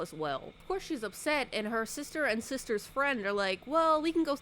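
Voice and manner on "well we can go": high, loud eager coaxing; mock eager coaxing. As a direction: sell it brightly, pitched way up. Sister coaxing her along.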